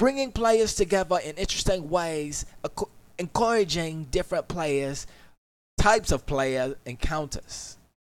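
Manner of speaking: bad put-on British accent. Speaker reading a passage aloud while struggling with it, in a bad British accent. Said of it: "I suck at reading and British accents".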